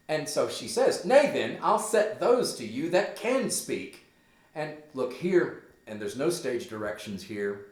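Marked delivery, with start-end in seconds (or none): 1.0-4.0 high, loud scolding mother; pulling a mom. Acted. Gertrude threatens her rude son, high loud scolding. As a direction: threaten your child, pitched up and emphatic. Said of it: "she's pulling a mom here for sure".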